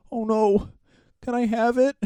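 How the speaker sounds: lightly hammed-up silly voice; mock innocent prankster. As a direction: play dumb about the poo. Prankster's fake innocent line.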